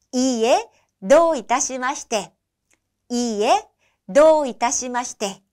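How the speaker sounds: 이에 도 이타시마시테 said clearly with a falling 도; teacher demo of the polite reply; model phrase. Shown as a demonstration. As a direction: say 이에, 도 이타시마시테 cleanly. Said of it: "하시면 됩니다".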